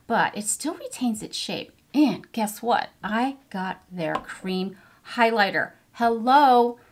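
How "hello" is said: delighted hello. Real, not acted. Showing off the highlighter.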